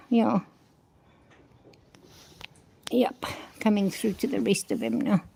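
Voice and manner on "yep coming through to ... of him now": hushed aside to yourself; a quiet whispered repeat. Real, not acted. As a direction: whisper it under your breath, no voice. Repeats the line to herself.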